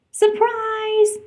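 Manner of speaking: high, loud happy shout; yelled surprise. A narrator's reading. Friends yelling surprise to welcome Ariel. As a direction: shout it out in glee. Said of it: "they yelled".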